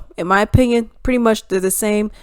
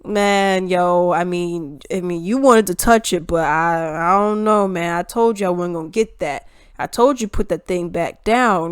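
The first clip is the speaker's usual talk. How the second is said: mock evasive backpedal; 3 semitones lower than usual. Mocking politician backing out of promise.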